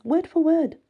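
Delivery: high, loud gotcha; triumphant. A narrator's reading. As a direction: pounce on the proof with glee. Heroine gleefully proves her point.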